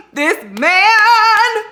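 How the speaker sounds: loud, very high swooning outburst; overwhelmed, high-pitched gushing cry; fangirl squeal. Real, not acted. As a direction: squeal it out over your book crush. Swooning over the book's hero.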